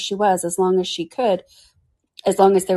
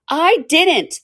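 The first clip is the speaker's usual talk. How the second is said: in a great hurry; 10 semitones higher, 4 dB louder than usual. Acted. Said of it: "in a great hurry".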